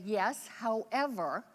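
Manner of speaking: slow, measured politeness, retold; courteous, drawn-out caution; very polite. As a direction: imitate a man politely and slowly warning someone. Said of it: "nodded very politely and said".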